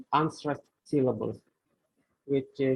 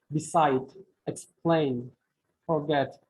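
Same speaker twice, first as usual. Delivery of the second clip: be-SIDE, ex-PLAIN, for-GET; second-syllable stress. Shown as a demonstration. Teacher giving verb examples, second syllable stressed in beside, explain, forget. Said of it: "stress on second syllable".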